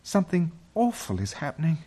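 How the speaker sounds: put-on high, quick, anxious girl's voice; alarmed girl, pitched high; frightened. A narrator's reading. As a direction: hurry it out in dread. Girls frightened by noise.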